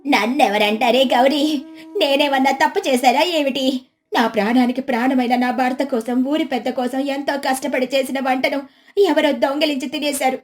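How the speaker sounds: lightly tearful mock complaint; put-on plaintive whine; plaintive wife feigning grief. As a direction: lament as the wronged housewife. Voices Lakshmi feigning grief.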